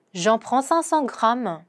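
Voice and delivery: very slow, careful French; slow pronunciation model; slow demo. Shown as a demonstration. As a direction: lay out each syllable slowly for learners. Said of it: "pronunciation demo".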